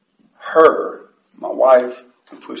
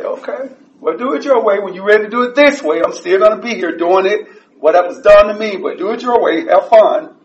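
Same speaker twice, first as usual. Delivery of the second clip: dismissive; 5 semitones higher, 3 dB louder than usual. Retold or imitated. Telling off the new guys.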